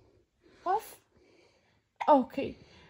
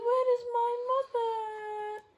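crying chick; 6 semitones higher than usual. Acted. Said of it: "And she said".

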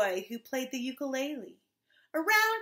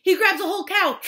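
higher, louder storytelling; excited narration; 6 semitones higher, 7 dB louder, faster than usual. A narrator's reading. Storyteller as giant raids cow pasture, excited cry. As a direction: build the alarm, loud.

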